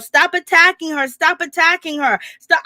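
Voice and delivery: hammed-up retold shriek, repeating the plea; mild mock scream. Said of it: "Marlo screaming in the background".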